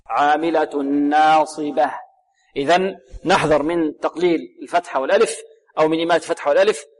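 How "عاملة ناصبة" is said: very slow recitation, ناصبة ending in an audible h; clear final ha. Shown as a demonstration. Teacher stresses the last letter, clear final ha. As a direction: draw out ناصبة and breathe out its final h. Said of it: "والهاء لابد من إيضاحها".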